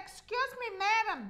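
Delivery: softly imitating a polite usher; lightly voiced cinema man, hushed and courteous; mock polite usher. Retelling the cinema man asking her, softly polite. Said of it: "He said".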